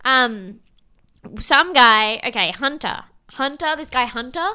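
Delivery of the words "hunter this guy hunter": ordinary talk, nothing marked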